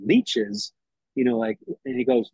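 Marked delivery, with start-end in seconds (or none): 0.1-0.7 high rising puzzled echo; "Leeches?" with a sharp high rise; confused question. Retold or imitated. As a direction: mishear it and ask it back, baffled. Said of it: "I go".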